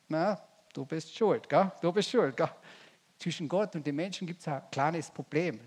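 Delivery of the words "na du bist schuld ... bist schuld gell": a hint of a slow accusing finger-pointer; mock blaming. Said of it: "Sagen sie".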